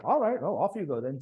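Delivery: high, loud mock shrug of a send-off; a lightly voiced airy brush-off; dismissive British send-off. British officers shrugging off the Americans, mock airy brush-off. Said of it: "the British are like".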